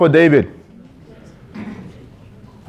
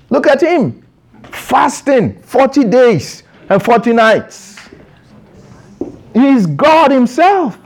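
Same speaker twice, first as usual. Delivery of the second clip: high, insistent preacher's challenge; impassioned preaching; 6 semitones higher than usual. Real, not acted. Preacher challenges listeners who want God yet keep eating, impassioned. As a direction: press each phrase home in a raised pitch, with pauses.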